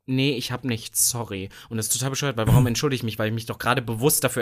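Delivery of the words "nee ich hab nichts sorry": mock brush-off. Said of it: "immer zu sagen".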